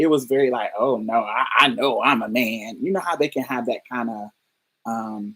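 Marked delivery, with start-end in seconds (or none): 0.8-2.8 slow, negative, condescending, dismissive tone. Retelling how a man distanced himself from trans people: imitating a negative, dismissive tone. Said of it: "that tone of voice that makes it seem like we're crazy".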